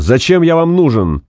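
high-pitched insistent demand; shouted question. A narrator's reading. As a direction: press for an explanation, calling out. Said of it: "крикнул Максим". (требовательный крик)

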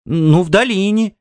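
high-pitched hesitant wife; wife's reluctant admission. A narrator's reading. Wife gives in to questioning. (высокий голос жены, нехотя)

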